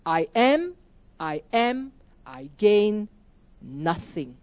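"nothing" drawn down and set apart after a pause; halting "I am, I am, I gain", then a falling "nothing"; emphasis on nothing. Shown as a demonstration. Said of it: "There's that emphasis".

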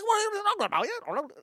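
high, garbled mock Australian; mock Australian accent. Asking an Australian man for directions, garbled Australian accent. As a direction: imitate an indecipherable Australian man. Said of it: "have to try to decipher his advice".

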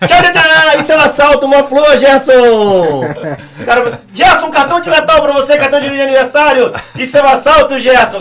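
voz mais aguda e mais alta de assaltante gentil e caricato; ladrão educado de mentira. Pretend. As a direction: imita um bandido cordial oferecendo flor e cartão. Mocks a polite robber bringing flowers. (zombando da ideia de um ladrão educado, voz aguda e alta)

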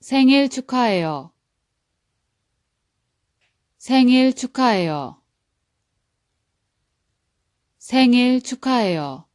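생일 축하해요 said crisply, high and clear; careful model read of 생일 축하해요, each syllable clean; dictionary pronunciation. Shown as a demonstration. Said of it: "I'm gonna repeat it three times. Listen carefully".

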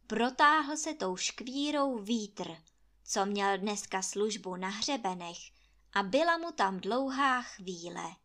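ordinary delivery

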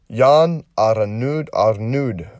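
"Jan Arnud" sounded out slowly, then "Arnud" retried; unsure pronunciation. Real, not acted. Host struggles with a performer's name, "Jan Arnud" said slowly and unsurely. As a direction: feel your way slowly through "Jan Arnud, Arnud". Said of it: "I'm gonna have trouble pronouncing".

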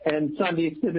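hollow, boxy echo like inside a bin; talking into a trash can. Real, not acted. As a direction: sound like you're speaking from a trash can. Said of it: "I sound like I'm in a trash bin".

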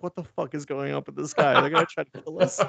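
mock panic, laughing through it; hammed-up frightened villager; panicked French townsfolk. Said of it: "the French people are like".

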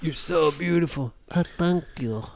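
lightly voiced exchange; a hint of flirty voices; retold flirting. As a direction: act out both sides of the flirt. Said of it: "When you met the Russian".

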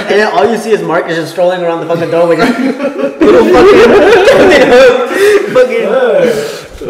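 high, loud words broken by laughter; cracking up mid-sentence; laughing hard. Real, not acted. Laughing while describing Marcus.

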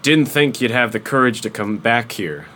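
lightly voiced tough warlord. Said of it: "let's see if I can do a warlord voice here".

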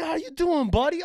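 high, loud imitation of an old pal; delighted greeting. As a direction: greet a long-lost buddy, hammed up.

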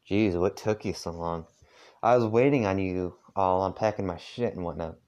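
put-on heavy southern accent. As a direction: lay the southern accent on thick. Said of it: "I'm trying to do a southern accent".

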